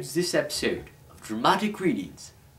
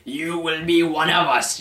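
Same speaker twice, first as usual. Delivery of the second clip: yelled; 5 semitones higher, 4 dB louder than usual. Acted. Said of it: "yelled the dead zombie ghosts".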